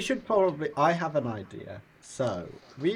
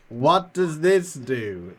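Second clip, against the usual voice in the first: slow, raised-pitch thought-message; telepathic message; 4 semitones higher, 6 dB louder, slower than usual. Acted. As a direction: send it slowly into someone's mind, pitched up. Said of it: "telepathically saying this".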